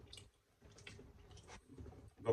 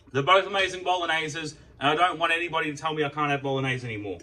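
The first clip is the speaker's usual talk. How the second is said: raised pitch, louder, gushing praise; excited insistence; 5 semitones higher, 5 dB louder than usual. Real, not acted. Vlogger insisting to viewers both Bologneses are amazing, excited. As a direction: gush so nobody can argue.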